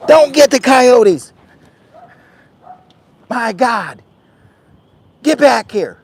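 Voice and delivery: high, loud, slow pleading shout; urgent high shout. Real, not acted. Owner shouting at his dog chasing coyotes. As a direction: call the dog back urgently.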